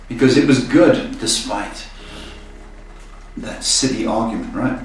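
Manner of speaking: talking through hiccups; hiccuping. Real, not acted. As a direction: hiccups breaking the words. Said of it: "I'm hiccuping".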